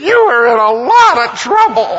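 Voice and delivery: very high, loud, wailing mock sob; imitated sobbing. Bob sobbing to David on the phone, in a hammed-up high wail. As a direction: wail it like a grown man crying on the phone. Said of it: "he is sobbing uncontrollably".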